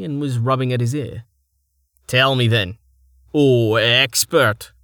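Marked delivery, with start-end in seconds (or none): 2.1-4.7 slow, sarcastic mock deference. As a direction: drawl out expert to taunt him. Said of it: "Starvo said mockingly".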